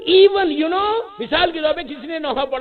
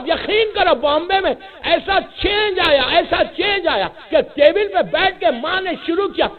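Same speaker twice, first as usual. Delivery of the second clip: louder fiery pulpit exhortation; preaching at full force; 3 dB louder than usual. Acted. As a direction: drive the message home to the crowd. (جوشیلا خطاب)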